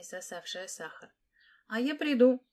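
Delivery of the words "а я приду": high, loud, fearless call; a brave girl volunteers with a shout; bold shout. A narrator's reading. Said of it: "смело крикнула Васса".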